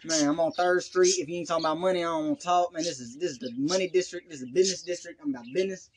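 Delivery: lightly demonstrated ghetto country street talk; a hint of hustler's street talk. Shown as a demonstration. Podcaster showing his ghetto country dialect, light street talk. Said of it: "if I'm just in the streets".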